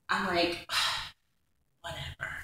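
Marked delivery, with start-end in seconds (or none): 0.7-2.3 retold exasperated dismissal. Woman recalling his disbelief in court, exasperated dismissal.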